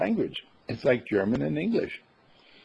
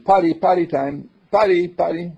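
put-on high, louder toddler plea; urgent toddler; 8 semitones higher, 7 dB louder than usual. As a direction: sound like a child who must go. Toddler asking for potty.

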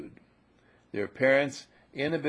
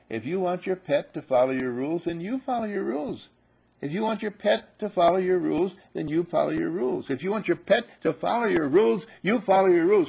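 rising louder with each repeat; insistent repetition; 6 semitones higher, 5 dB louder than usual. Real, not acted. Teacher repeating the rule to students, building louder. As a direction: drive the rule home harder each time.

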